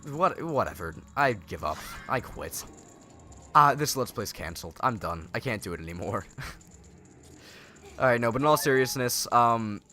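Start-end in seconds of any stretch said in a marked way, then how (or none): 0.1-6.2 mock giving up. Mock quitting after losing shield.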